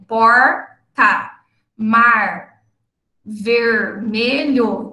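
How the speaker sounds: porta, mar, vermelho with curled r at syllable end; retroflex r in coda. Shown as a demonstration. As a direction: curl the tongue on each final r. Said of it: "Por exemplo".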